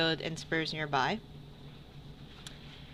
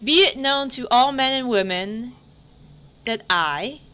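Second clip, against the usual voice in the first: herald proclamation; 4 semitones higher, 3 dB louder than usual. Acted. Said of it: "there's a herald, reads".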